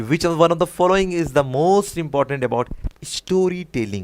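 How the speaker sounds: very slow, word by word, as if dictating; slow question reading. Shown as a demonstration. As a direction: drag the question out for the class. Teacher reads exam question slowly.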